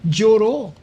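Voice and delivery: "lloró" said high and loud, with a falling tone; emphatic repeat of lloró. Real, not acted. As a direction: stress "lloró" with weight. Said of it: "emphatic repetition". ("lloró" dicho agudo y fuerte, con énfasis)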